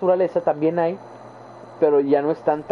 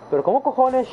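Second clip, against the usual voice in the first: higher-pitched mock Spain accent; 8 semitones higher than usual. Example of how they talk in España, Spain accent. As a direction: imitate a Spaniard with hushing final S. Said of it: "en España el acento es".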